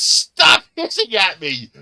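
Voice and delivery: loud, high, slow mock yell; the dad finally losing patience; drawn-out hammed-up shout; imitated angry yell. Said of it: "finally he says".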